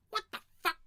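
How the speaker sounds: loud, high-pitched imagined reaction; mock outraged disbelief. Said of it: "his face go".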